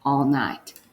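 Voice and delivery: slow, clear dictation of the sentence. Shown as a demonstration. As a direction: dictate it slowly for writing. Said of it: "The first one we're gonna write is".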